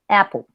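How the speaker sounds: "apple" opening on A gliding quickly into E; subtle A-E vowel. Shown as a demonstration. Teacher recalls the word for manzana, subtle A-E vowel. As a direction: slip a faint E into the first vowel of "apple". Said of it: "¿Vieron que yo digo A E?".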